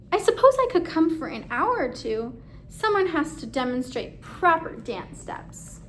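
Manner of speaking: high, pleased, hammed-up modesty; a mock-humble narrator accepting the invite; flattered narrator.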